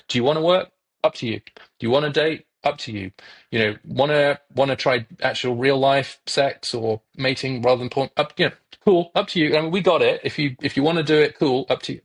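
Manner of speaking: mock shrug. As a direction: toss it off like nobody cares. Mocking society's shrugging message to men.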